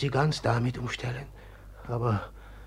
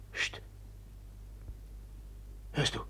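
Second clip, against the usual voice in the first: sharp hush; shushing; 14 dB quieter than usual. Acted. Pawin hushes his brother at a noise. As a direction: silence him at once. Hushing, someone in the hall.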